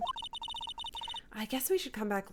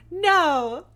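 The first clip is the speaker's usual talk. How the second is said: loud no; 8 semitones higher, 12 dB louder than usual. Real, not acted. Loud denial in banter.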